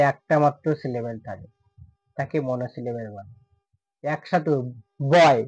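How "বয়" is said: "বয়" as one single unbroken syllable, set apart by pauses. Shown as a demonstration. Teacher demonstrating a monosyllable, said all at once. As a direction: hit "বয়" whole, in a single beat. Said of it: "বয়কে আলাদাভাবে উচ্চারণ করা হচ্ছে".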